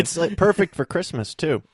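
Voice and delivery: understated deadpan sarcasm; dry, lightly sarcastic. Real, not acted. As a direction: say it as if sincerely, meaning the opposite. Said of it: "I was being sarcastic".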